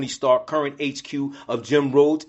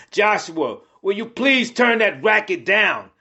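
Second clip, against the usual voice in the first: high, exasperated narrated yell; yelling parent; 6 semitones higher than usual. A narrator's reading. Man on his couch yells to his son, exasperated. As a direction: call across the house, pitched up. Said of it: "yells to his son".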